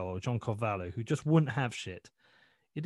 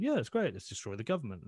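mock cheerleading. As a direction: parody an uncritical cheerleader. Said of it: "just cheerleading and going".

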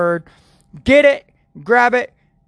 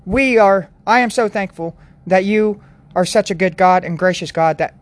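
prayer. Acted. Continues the prayer.

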